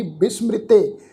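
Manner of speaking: ਬਿਸਮ੍ਰਿਤੇ as bis-mri-te; joined pronunciation. Shown as a demonstration. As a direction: put the i after mr in ਬਿਸਮ੍ਰਿਤੇ. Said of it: "ਲੱਗ ਕੇ ਉਚਾਰਨ ਹੋਏਗੀ".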